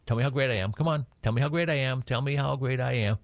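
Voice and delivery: high, needy and boastful; a vain god begging for praise; egotistical God voice. Pretend. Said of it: "He's not on some ego trip".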